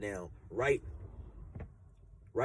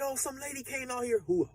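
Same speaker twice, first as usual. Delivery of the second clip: imitated panic; 12 semitones higher than usual. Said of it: "she's in a panic".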